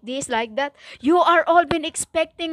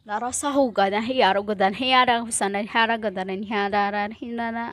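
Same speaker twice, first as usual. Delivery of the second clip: lower, softer murmured tongues; speaking in tongues; 5 semitones lower, 4 dB quieter, faster than usual. Real, not acted. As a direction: slip into a quick prayer language. Closing prayer in tongues.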